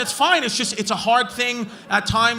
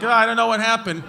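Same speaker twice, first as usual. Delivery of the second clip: fake innocence; faster than usual. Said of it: "I would have walked off like".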